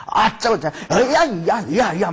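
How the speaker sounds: mock ritual yells, tailing off; imitated frenzied shouting. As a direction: imitate worshippers crying out wildly. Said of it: "큰 소리로 막 외치고".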